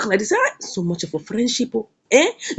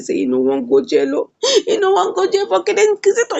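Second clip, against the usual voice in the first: mock crying; 7 semitones higher than usual. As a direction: imitate someone crying over jail. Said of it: "he come begin dey cry again".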